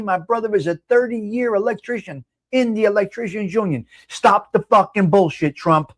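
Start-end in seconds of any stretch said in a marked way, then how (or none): 4.1-5.9 angry. Real, not acted. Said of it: "You can see how aggravated I am".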